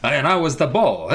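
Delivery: lightly voiced put-upon comedian; a hint of a self-pitying stand-up comic; Rodney Dangerfield. Skippy telling his soccer woe, light Rodney Dangerfield impression. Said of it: "I want to do a Rodney Dangerfield accent".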